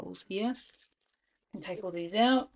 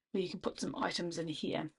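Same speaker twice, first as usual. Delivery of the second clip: whisper; 6 dB quieter than usual. Real, not acted. Unvoiced aside.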